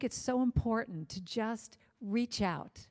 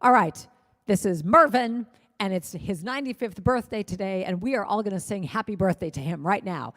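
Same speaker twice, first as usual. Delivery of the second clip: louder, like over a plane PA; loudspeaker announcement; 4 dB louder than usual. Retold or imitated. Flight attendant addressing all passengers, loud PA announcement. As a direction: announce it to the whole cabin. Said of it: "the flight attendant says on the loudspeaker".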